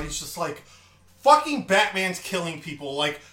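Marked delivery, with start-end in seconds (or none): 1.2-3.2 mock panic, building to a loud drawn-out wail; freaking out. Valestro begs for help against Batman, acted freaking out. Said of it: "Valestro's freaking out".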